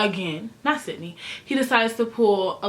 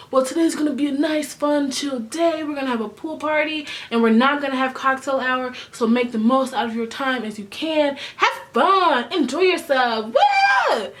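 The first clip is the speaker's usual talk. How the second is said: hyped host; 4 semitones higher than usual. Retold or imitated. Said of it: "Chris Harrison comes in and he's like".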